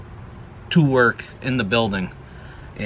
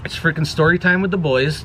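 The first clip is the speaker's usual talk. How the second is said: hyped show intro; 5 semitones higher, 3 dB louder than usual. Shown as a demonstration. Vlogger launching his show for viewers, hyped catchphrase. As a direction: raise it higher and louder, ending on a rise. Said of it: "let's get into this video the best way we know how".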